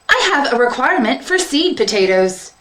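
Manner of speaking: field minder robot. Acted. Field minder asking the seed distributor, robotic. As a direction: speak like a dutiful farm machine.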